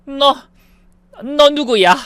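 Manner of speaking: high, loud stunned question; mother-in-law confronts the stranger, stunned; shocked demand. Acted. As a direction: stammer out who she is. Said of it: "경악하며 물었습니다".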